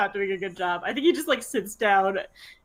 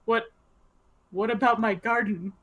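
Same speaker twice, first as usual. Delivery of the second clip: distressed; slower than usual. Retold or imitated. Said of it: "and he goes".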